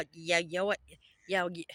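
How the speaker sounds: stuck on "Ye-", restarting the first syllable of Yeshua; stumbling over Yeshua. Real, not acted. Trying to say the name he was called, stumbling on "Ye-". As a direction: keep tripping on "Ye-" without finishing. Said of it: "I can't say it".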